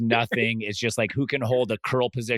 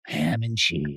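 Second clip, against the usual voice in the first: sultry voice. Retold or imitated. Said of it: "into the OnlyFans voice to describe the reward".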